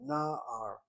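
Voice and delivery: na'ar as NA-ar, falling off at the end; accent the first syllable of na'ar; long NA, lighter ar in na'ar; stress on first syllable. Shown as a demonstration. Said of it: "Notice how I say that word".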